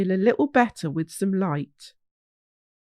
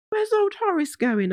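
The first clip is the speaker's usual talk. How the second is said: high, small worried question; young hog puzzled as Horace leaves; little Wheelie asking; 11 semitones higher than usual. Acted. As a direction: wonder aloud in a tiny voice. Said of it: "asked little Wheelie".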